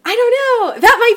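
high, loud giddy squeak; excited squeal. Real, not acted. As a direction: squeal with delight. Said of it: "Sharp intake of Disney breath".

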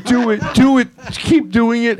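giggly pleading, half laughing; giggling eagerly. Retold or imitated. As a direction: egg the show on through giggles in bed. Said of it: "laying there in bed going".

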